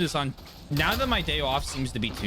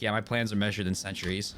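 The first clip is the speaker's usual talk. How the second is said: vocal stim line; 7 semitones lower, faster than usual. Retold or imitated. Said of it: "I'll be like".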